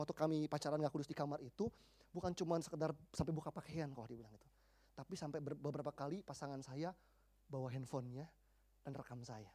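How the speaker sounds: low, very soft retold admission; subdued, halting voice of someone confessing; hushed confession. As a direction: let the quote sink low and soft. Girl's hesitant, shameful confession retold.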